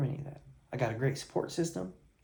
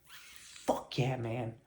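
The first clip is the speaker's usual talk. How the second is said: hushed praise; 3 semitones lower, 7 dB quieter, much slower than usual. Retold or imitated. Coach praising proud client.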